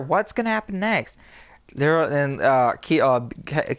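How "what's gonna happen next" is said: high mock voice of a nosy viewer; imitating her. Mocking Valerie's constant movie questions, in a high voice. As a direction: squeak the question like she does, teasing. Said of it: "And then she'll sit there".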